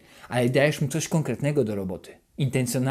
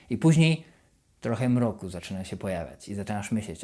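usual speaking voice

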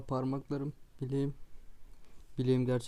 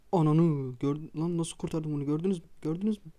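triumphant boast; 2 semitones higher than usual. Real, not acted. Gamer bragging to viewers about a save, triumphant.

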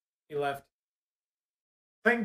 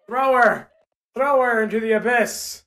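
loud urging; 2 semitones higher, 5 dB louder than usual. Real, not acted. Urging pet to throw.

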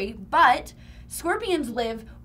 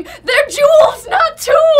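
big booming shout, higher and louder; 13 semitones higher, 12 dB louder, much slower than usual. Retold or imitated. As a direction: boom it out like a scolding mom. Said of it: "Trisha's booming voice going".

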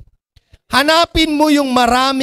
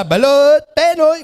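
street vendor cry; 3 semitones higher, slower than usual. Retold or imitated. Imitating balut vendor's street cry.

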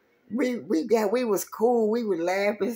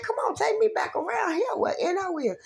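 raised, whiny plea; high urgent request; 13 semitones higher than usual. Retold or imitated. Retelling to friends, high urgent plea to driver. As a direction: push him to drive back. Quoting her demand.

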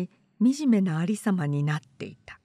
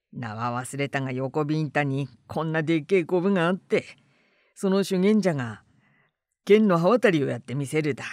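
rustic storyteller; 4 semitones lower than usual. Acted. Suneguro tells rustic tale.

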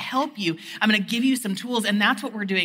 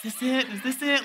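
eager hopeful; 5 semitones higher than usual. Retold or imitated. Hoping for a first kiss.

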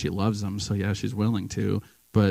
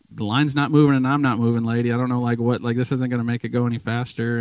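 louder, exasperated mock complaint; annoyed retort; 3 semitones higher, 5 dB louder than usual. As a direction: snap back at the crowding lady. Annoyed inner retort to pushy lady.

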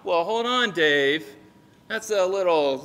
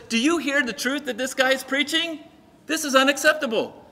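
indignant scrawny priest, pitched up; high squeaky voice; 6 semitones higher than usual. Acted. Scrawny priest objects to Peter's preaching, high squeaky voice. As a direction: put on a squeaky, complaining voice. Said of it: "high squeaky voice".

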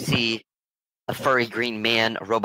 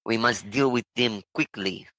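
put-on slow German accent sliding into Transylvanian; lightly hammed German-Transylvanian villain; measured, slow attempt at a bad German accent. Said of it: "I sound like I'm from Transylvania".

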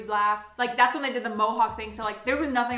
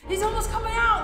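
high, eager mock announcement; imitating excited husband; 10 semitones higher, 4 dB louder than usual. Wife imitating her husband's eager updates, high and excited. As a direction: play him hyping the push. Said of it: "And you kept saying".

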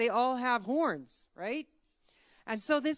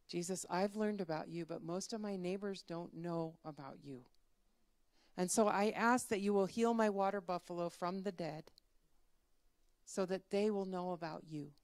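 lower, gentle praying voice; acted prayer; 3 semitones lower, 5 dB quieter than usual. Farmer asks Jesus to heal his buffalo, praying. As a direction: pray simply and earnestly, a touch subdued. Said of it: "So he prayed again".

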